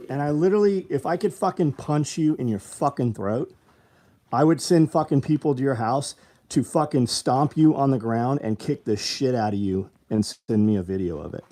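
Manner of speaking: loud furious outburst at commenters; angry rant. Real, not acted. Livestreamer to hostile commenters, loud angry rant. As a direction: raise the voice in real anger at critics.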